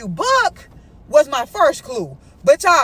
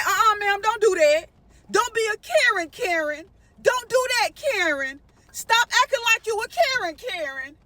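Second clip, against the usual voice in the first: exasperated scolding, pitched up on each command; fed up; 4 semitones higher than usual. Retold or imitated. Diner scolding the waiter over a refused license, fed up. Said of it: "because I was fed up".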